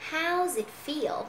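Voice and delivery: "How's it" run together as one word; linked sounds. Shown as a demonstration. Teacher shows class the linking, words run together. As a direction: slowly link "How's it feel". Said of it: "bây giờ chúng ta có nối âm".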